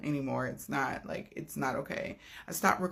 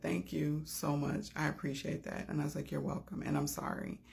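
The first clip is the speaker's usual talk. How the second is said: soft thank-you; 6 dB quieter than usual. Retold or imitated. Quiet thanks and apology exchanged.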